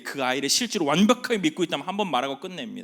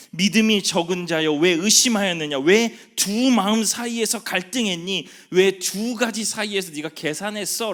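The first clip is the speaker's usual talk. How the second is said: voicing Jesus; 7 semitones higher, 8 dB louder than usual. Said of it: "라고 물어보시는 거예요".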